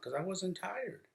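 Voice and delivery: put-on high, slow little boy voice; imitating his son. Dad imitating his ten-year-old son, high and slow.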